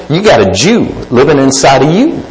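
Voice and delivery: a lightly put-on bad Southwest accent; mock Southwest accent, barely done. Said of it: "in a very bad Southwest accent".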